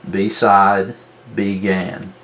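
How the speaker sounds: "beside" and "began" as BEE-SIDE, BEE-GAN; over-exaggerated syllables. Shown as a demonstration. Teacher marking syllables for students, over-exaggerated "beside, began" as bee-side, bee-gan. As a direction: split "beside" and "began" into full, separate syllables with a long ee. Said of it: "over-exaggerate the pronunciation of it".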